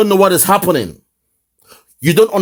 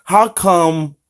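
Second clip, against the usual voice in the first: mocking the question; 2 semitones higher, much slower than usual. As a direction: parrot the guest's question mockingly. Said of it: "He's asking".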